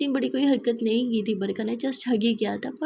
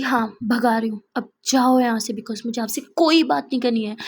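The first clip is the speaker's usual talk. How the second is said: loud, cold sending-away; angry dismissal; 5 dB louder than usual. Acted. Neha sends Barkha out of her room, loud and angry. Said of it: "Neha बोलती".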